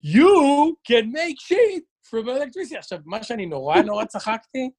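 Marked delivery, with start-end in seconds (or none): 0.0-2.8 slow, solemn mock YouTuber line; imitating a YouTuber. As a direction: drag each word out like a pompous vlogger. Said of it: "השלב שהוא עושה כזה".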